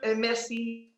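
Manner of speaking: Scottish English accent speaking French; halting French with a Scottish accent; foreign accent in French. Real, not acted. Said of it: "mon français est pas, euh, pas bon".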